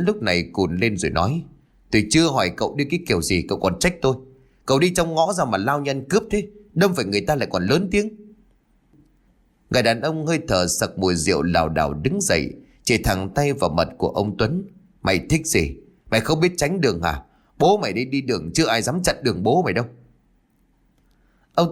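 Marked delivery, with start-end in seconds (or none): 1.9-8.1 indignant retort. Acted. Acted quarrel after a crash. 15.0-19.9 put-on drunken bluster. Drunk man picks a fight.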